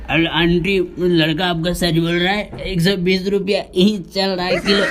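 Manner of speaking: a hint of the butcher vouching for him; mimicked butcher. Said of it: "mimicry तो मैं बंद कर दिया".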